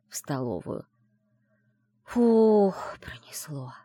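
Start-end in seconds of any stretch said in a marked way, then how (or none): 2.0-3.7 breathy, whispered relief at the end; relieved exhale. Acted. Friend after the librarian leaves, relieved whispered sigh. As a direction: let the air out, fading to a whisper. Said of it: "выдохнула подруга".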